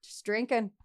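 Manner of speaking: lightly voiced happy-go-lucky drifter; carefree quote. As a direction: toss it off like life is easy. Voicing the carefree immigrant's attitude.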